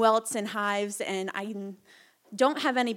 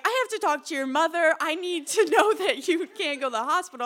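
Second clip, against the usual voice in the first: lightly voiced cop; 6 semitones higher, 4 dB louder than usual. Cop insisting on calling mom.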